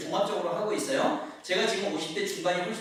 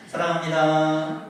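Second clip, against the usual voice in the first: newer greeting; 4 semitones lower, slower than usual. Shown as a demonstration. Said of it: "요즘에 또 어떻게 해요?".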